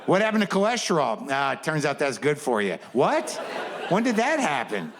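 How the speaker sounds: genuinely thrown by the news; baffled. Retold or imitated. Baffled questions about health fads.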